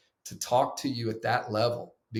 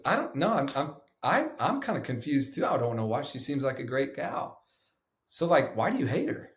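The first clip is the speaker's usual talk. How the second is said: lightly voiced mentor, pitched up in mock confusion; puzzled mentor; 3 semitones higher than usual. Mentor questioning, retold.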